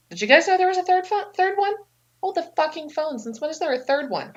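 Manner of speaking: mock shock. Eve shocked by a third brother.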